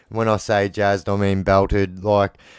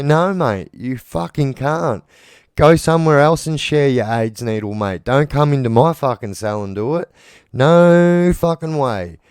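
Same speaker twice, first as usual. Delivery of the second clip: firm angry refusal; 3 semitones higher than usual. Retold or imitated. Refusing the cellmate who wants to shoot up in the cell, angry. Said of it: "I say".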